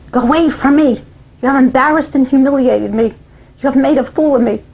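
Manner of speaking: a mild mock of a mother's cold anger; mother's angry rebuke. Mother sends her embarrassed daughter away, mildly angry. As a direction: push her away with hurt anger, held back.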